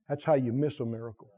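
low and soft, almost to himself; quiet first statement. Real, not acted. Preacher warning the church, quietly. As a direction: let it land quietly first. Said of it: "I said".

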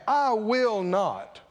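slow, stubborn I will not; rebellious refusal. Shown as a demonstration. Preacher acting the rebellious son, slow and stubborn. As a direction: dig in and refuse, slowly. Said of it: "That's rebellious".

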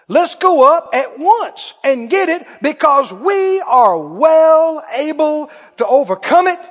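slow confident charge; bold rallying call. Acted. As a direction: declare it like nothing can stop you. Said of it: "They said".

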